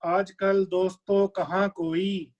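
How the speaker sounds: measured verse delivery, pitched above talk; ghazal recitation. Acted. Poet offers couplet to listeners, ghazal recitation. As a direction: recite the couplet to a mushaira audience.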